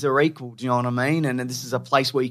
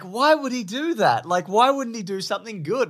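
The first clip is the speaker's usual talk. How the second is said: teasing imitation; 9 semitones higher than usual. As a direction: tease her by mimicking how upset she sounded. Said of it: "'cause you were like".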